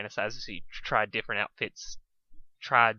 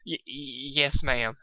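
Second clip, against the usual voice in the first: squeak; 3 semitones higher, slower than usual. Acted. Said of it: "Dusk squeaked".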